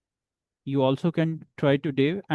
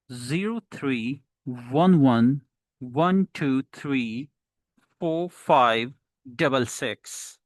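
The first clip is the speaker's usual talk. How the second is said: digits in slow, separated groups; phone number delivery; slower than usual. Shown as a demonstration. Teacher shows how to speak numbers, grouped digits. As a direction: read it out group by group, lilting. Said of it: "how to speak the phone number".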